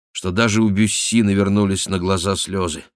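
plain reading voice

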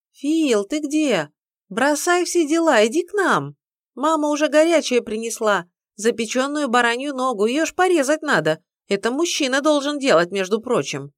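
wife calling husband to carve the lamb; calling out cheerfully. Acted. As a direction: call him to the table, bright and insistent. Alisa calls from living room.

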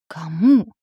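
frightened doctor bleating. A narrator's reading. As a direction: bleat it in panic. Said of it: "испуганно проблеял доктор".

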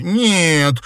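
sharp high narrated cry; girl crying out, shaking her head, loud and high. A narrator's reading. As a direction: shout the refusal. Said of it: "крикнула она".

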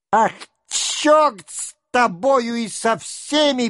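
high, fed-up outburst; exasperated curse. A narrator's reading. Denisov cursing everyone as Rostov leaves. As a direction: throw the curse after him.

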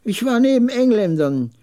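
put-on high, emphatic old veteran; old camel trader. Old veteran recalls the war.

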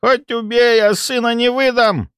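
put-on high old lady voice, defiant; defiant old woman. A narrator's reading. Old woman protecting her son, high defiant voice. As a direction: dig in like a stubborn granny.

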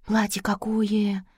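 slow, awed whisper. A narrator's reading. Girl seeing the wedding dress, whispering in awe. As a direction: draw it out in hushed admiration. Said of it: "прошептала девица".

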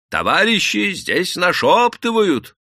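strained high, loud warning; надсаживаясь. A narrator's reading. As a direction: strain your voice to warn them. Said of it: "надсаживался рабочий". (надсадный крик)

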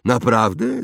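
put-on high boy voice with a light sneer; mock him a little; slightly mocking. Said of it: "nieco kpiącym tonem". (z lekką kpiną)

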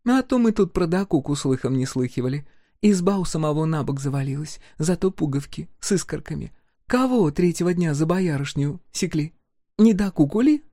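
высоким голосом, с насмешкой; поддеть его с издёвкой; насмешливо. A narrator's reading. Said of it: "продолжала всё так же насмешливо". (погорелица насмешливо поддевает Дакуку)

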